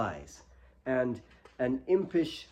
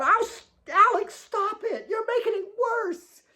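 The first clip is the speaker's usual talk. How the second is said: much higher, shrill protest; angry hurt girl. A narrator's reading. Kate hurt and furious at Alex, crying out. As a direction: snap at him to stop touching it.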